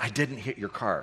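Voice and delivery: whispered. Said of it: "Why I was whispering".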